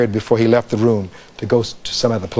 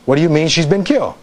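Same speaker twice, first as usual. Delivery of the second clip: MEAN pitched up, falling on killed; emphatic question; 5 semitones higher than usual. Shown as a demonstration. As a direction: ask it pointedly, lifting "What do you mean". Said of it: "is that a question or is that a question".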